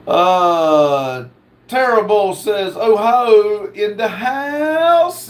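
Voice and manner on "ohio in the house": long, raised cheer for the home state; hyped shout-out. Retold or imitated. Host reading a viewer's Ohio shout-out, hyped and drawn out. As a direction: draw it out high, rising on house.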